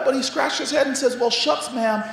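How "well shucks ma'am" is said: lightly voiced aw-shucks schoolboy; a hint of a bashful Southern boy; little boy. Little boy explaining himself to his teacher, lightly acted innocence. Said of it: "he was just a little boy".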